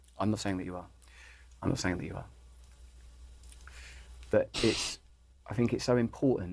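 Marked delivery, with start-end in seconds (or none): 0.2-2.3 deliberately calm, performative put-on tone. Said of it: "putting on this very performative, calm voice".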